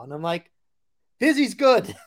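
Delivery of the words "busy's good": high-pitched, upbeat mock reply; cheery high-voiced retort; playful high echo. Echoing the Italian buyer, laughing after.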